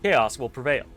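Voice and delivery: lightly robotic, even monotone reading; half-hearted robot, words flat and measured; cheap robot voice. Acted. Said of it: "cheapskate robot voice".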